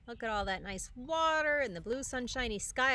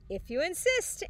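sweetly; 7 semitones higher than usual. A narrator's reading. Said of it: "answered the friendly ladybug sweetly".

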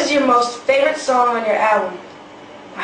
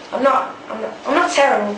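light go at an English accent; attempted English accent; 3 semitones higher than usual. Shown as a demonstration. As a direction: try out an English accent, a little Australian. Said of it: "A little bit Australian, but it sounded cute".

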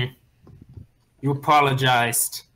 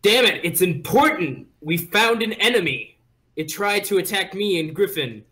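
urgent call; 3 semitones higher than usual. Acted. Character urgently calling out.

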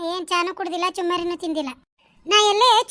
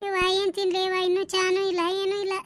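faint moaning lament; 5 dB quieter than usual. Acted. Fallen old woman complains faintly.

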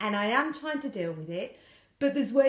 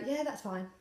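curt withdrawn answer; 7 dB quieter than usual. Acted. Woman shutting out partner's questions, quiet and curt. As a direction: give a quiet one-line answer. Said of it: "I go quiet and I'll give, like, one or two word answers".

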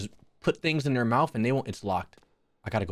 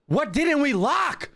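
very high, slow, stretched-out question; more desperate wail; 11 semitones higher, slower than usual. Real, not acted. Player desperate to find what is unlocked, high drawn-out wail. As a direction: wail it slowly, pitched right up.

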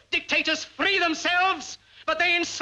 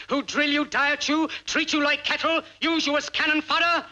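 building oratory; 4 semitones higher than usual. Acted. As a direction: build the list to a fiery climax. Climax of a rousing speech.

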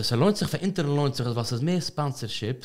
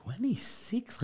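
surprised; 11 semitones higher, 9 dB quieter, much slower than usual. Real, not acted. Surprised at the guest's age.

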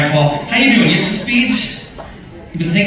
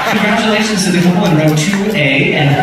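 mock pilot announcement; 4 semitones lower, faster than usual. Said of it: "captain to make an announcement".

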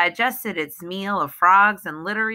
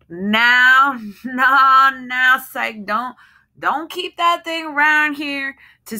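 higher, loud nervous pleading; frightened wife; 7 semitones higher, 5 dB louder than usual. Acted. Wife begs her husband to kill the snake, nervous and pleading. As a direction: plead with him, rattled and scared.

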